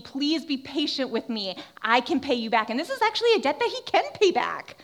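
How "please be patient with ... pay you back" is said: imitated pleading. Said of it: "He's, like, pleading".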